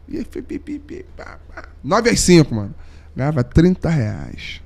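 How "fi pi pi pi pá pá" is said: high, soft instrument toots; quick mouthed imitation of playing; imitated sax noises. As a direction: toot out little high notes by mouth.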